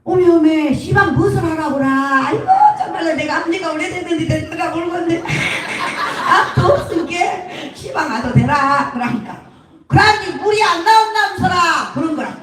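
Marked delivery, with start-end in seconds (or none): 0.0-8.9 put-on higher, baffled old Jeolla woman; flustered Jeolla granny. Mother-in-law can't find the place, flustered Jeolla dialect. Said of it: "여 할머니가 받았어". 9.9-11.9 put-on higher Jeolla-accented protest; Jeolla dialect. Repairman asks about the water, Jeolla accent. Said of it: "이제 전라도 말이야".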